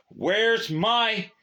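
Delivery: loud, high, cut-off shout; shout, then break off. Acted. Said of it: "he shouted".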